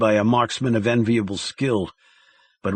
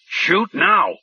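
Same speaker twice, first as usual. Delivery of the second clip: frantic handler; 8 semitones higher than usual. A narrator's reading. Handler screaming orders.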